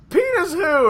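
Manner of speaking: high, laughing disbelief. Real, not acted. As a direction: crack up as you ask. Laughing retort to kid.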